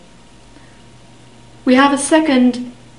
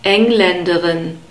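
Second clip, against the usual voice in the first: Engländerin with the stress on ENG; ENG-län-de-rin, lower-pitched teaching demo of Engländerin; first-syllable stress; 4 semitones lower than usual. Shown as a demonstration. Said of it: "on the first syllable".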